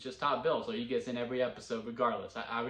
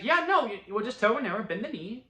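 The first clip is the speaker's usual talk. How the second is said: firm instruction; 8 semitones higher, 3 dB louder than usual. Retold or imitated. Quoting Alicent's orders.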